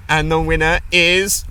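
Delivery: lightly voiced host building to the reveal; quiz host announcing. Pub quiz host revealing the winner, mock announcing.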